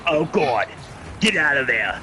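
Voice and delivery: put-on slow, panicky drunk pilot voice, lightly done; a hammed-up frantic call for mom; Independence Day guy impression. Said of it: "the one dude from Independence Day".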